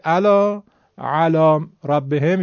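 slow, loud «علی» with a plain hamza for ayn. Shown as a demonstration. Teacher mimicking a student, «علی» pronounced with no Arabic ayn. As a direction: begin «علی» like «الا», Persian style. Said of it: "همزه و با عینش با هم هیچ فرقی ندارن".

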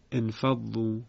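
انفضوا begun with an i sound, infaḍḍū; starting with kasra. Shown as a demonstration.

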